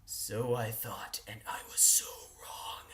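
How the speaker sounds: low, slow, hushed aside; ominous whisper. Acted. Teasing the listener about what comes next, ominous whisper. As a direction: breathe it like a dark foreshadowing.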